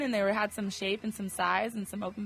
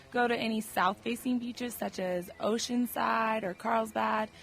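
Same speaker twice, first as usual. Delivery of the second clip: lost voice, raspy report. Real, not acted. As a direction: read it with a raspy voice. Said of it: "You got the hot chick rasp going".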